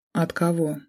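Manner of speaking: cold, flat question from the mother; coldly. A narrator's reading. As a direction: ask it coolly, no warmth. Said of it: "холодно уточнила".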